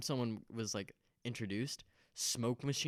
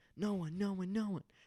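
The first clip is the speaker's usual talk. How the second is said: acted, high, shrill scream, repeated over and over; 8 semitones higher than usual. Retelling what a speaker on stage told the crowd: imitating someone screaming.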